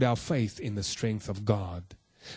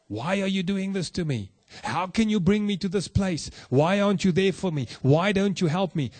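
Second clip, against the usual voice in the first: higher, imitating a complaining cry at God; a preacher mimicking someone yelling at God, pitched higher; mock shouting at God; 5 semitones higher than usual. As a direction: act out the frustrated believer railing at heaven. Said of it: "start shouting at God".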